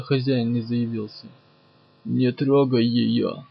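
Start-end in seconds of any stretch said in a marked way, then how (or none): 2.0-3.4 slow, grating inhuman warning. Acted. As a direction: grind it out like a monster. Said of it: "проскрежетал кто-то нечеловеческим голосом".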